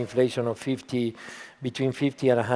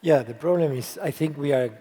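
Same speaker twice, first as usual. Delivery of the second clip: hoarse, worn-out voice; hoarse from yelling; 2 semitones higher than usual. Real, not acted. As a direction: speak with a voice worn out from cheering. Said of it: "sorry for the voice".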